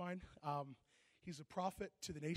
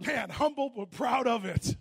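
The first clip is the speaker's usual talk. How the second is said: laughing tease; 6 semitones higher, 16 dB louder, slower than usual. Retold or imitated. Teasing remark after the kid.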